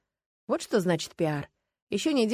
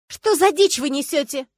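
медленно, громко, с негодованием; отчитай наглецов; возмущённо; 8 semitones higher, 9 dB louder, slower than usual. Acted. Дама возмущена. (негодование)

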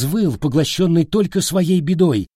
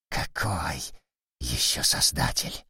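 low rasping monster growl; growling chained demon; 10 semitones lower, 10 dB quieter than usual. Acted. Paralysed vampire speaks hoarsely.

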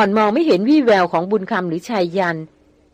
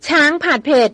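shocked outcry; 6 semitones higher than usual. A narrator's reading. Young woman learns she ate elephant, shocked outcry. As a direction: cry out high in disbelief. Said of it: "ร้องลั่นออกมา".

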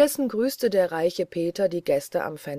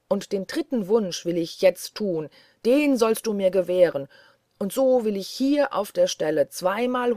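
louder, building triumphant shout; 4 dB louder than usual. Acted. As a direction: grab him and crow in triumph. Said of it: "und rief". (triumphierend lauter werdender Ruf)

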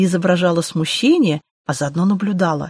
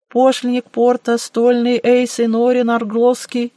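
formal official introduction; 4 semitones higher than usual. Acted. Young official reciting his title.

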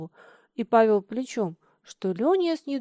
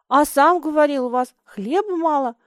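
louder, a glad eager reminder; 4 semitones higher, 8 dB louder than usual. Acted. Лёня joyfully reminds Миша there is no bread at home, glad. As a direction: pounce on it happily. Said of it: "радостно вспомнил Лёня".

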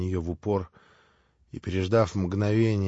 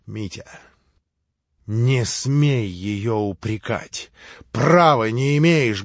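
heated rebuke; 3 dB louder, slower than usual. Acted. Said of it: "горячо крикнул на брата Алёша".

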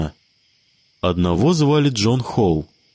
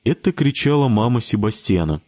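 ordinary delivery, nothing marked

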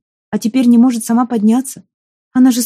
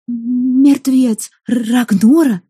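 teeth chattering, close to tears; 3 semitones higher, much slower than usual. Acted. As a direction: force it out through chattering teeth. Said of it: "стуча зубами и порываясь разрыдаться".

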